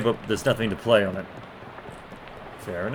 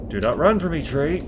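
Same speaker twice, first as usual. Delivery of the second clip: commanding call; 4 semitones higher, 4 dB louder than usual. Acted. Woodcutter calling out.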